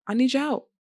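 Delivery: a raw cry for help to her viewers; desperate plea. Real, not acted. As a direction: beg them outright, leaning on need.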